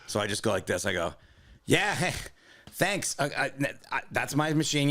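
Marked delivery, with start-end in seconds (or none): 1.7-4.9 high, pointedly polite thanks; retold fake gratitude with an edge; passive-aggressive. Customer claiming his machine beside a line-cutter, passive-aggressive. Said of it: "very passive aggressively".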